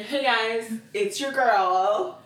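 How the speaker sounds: put-on drawn-out hey guys, it's your girl; mock influencer voice. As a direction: ham up the influencer intro. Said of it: "That's what they all do".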